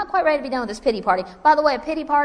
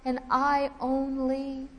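mock self-pity; 4 semitones higher, 8 dB quieter, much slower than usual. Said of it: "Elijah just say to God".

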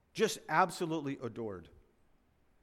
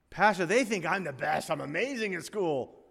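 boastful student; 4 semitones higher, 5 dB louder than usual. Retold or imitated.

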